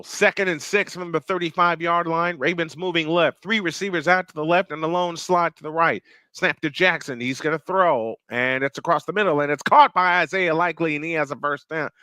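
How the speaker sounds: steady call building to the catch; live play-by-play. Real, not acted. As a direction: call the pass as it happens.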